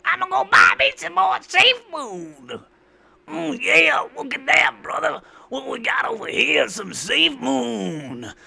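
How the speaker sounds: over-the-top hype-man shout. Pretend. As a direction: hype the chat like a crypto bro. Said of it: "with me doing this voice".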